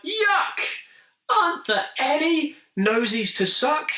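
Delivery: very high, cross monster cry; cross shout. A narrator's reading. Monster shouting crossly after tasting the cold conch. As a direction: spit out the cold taste in disgust. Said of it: "looked cross and shouted out".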